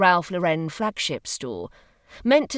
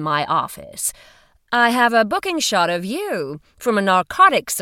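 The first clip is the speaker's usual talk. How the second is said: louder, brisk official woman; firm woman's voice; 5 dB louder than usual. Acted. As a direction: speak up like a firm investigator. Female agent explaining.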